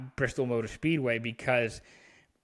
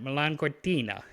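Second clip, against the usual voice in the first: Milan Cortina with a lightly put-on Italian accent, "Milan" as meh-LAHN; a half-hearted stab at saying Milan Cortina the Italian way; terrible Italian accent. Shown as a demonstration. Hockey podcaster trying the Olympic host city's name, mock Italian accent. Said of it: "that's my terrible accent".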